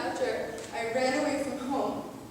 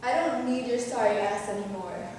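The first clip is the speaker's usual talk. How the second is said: scornful rant exploding at the end; angry telling-off; 8 dB louder than usual. Acted. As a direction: tell him off, ending in a furious shout. Rehearsed telling-off of an ex.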